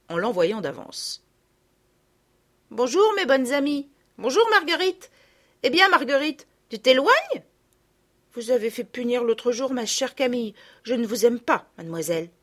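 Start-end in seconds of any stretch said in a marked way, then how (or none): 2.7-12.3 put-on higher, louder child's voice, cool; a girl sharply holding a grudge; sulky girl. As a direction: greet friends, then snub the little one. Sophie arrives, cold to Marguerite.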